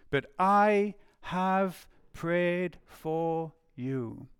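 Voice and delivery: very slow, each word set apart; solemn reassurance. Acted. Jesus telling Simon he has prayed, slow solemn reassurance. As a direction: reassure deliberately, letting every word land.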